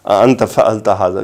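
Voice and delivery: soft, gentle and respectful asking; polite question. Shown as a demonstration. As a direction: ask it softly and courteously, as if to a respected man. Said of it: "اگر وہ ادباً پوچھتے".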